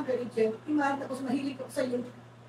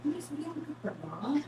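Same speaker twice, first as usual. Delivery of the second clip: whisper; 8 dB quieter than usual. Retold or imitated. Retold nosy question.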